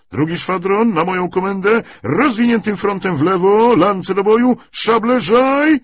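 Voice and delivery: rally the whole squadron to charge; battle command. Acted. Cavalry captain ordering the squadron's charge, shouting.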